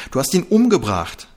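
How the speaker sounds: loud, high accusing shout. A narrator's reading. Seela screaming that Trixie killed him. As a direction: hurl the accusation. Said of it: "schrie Seela".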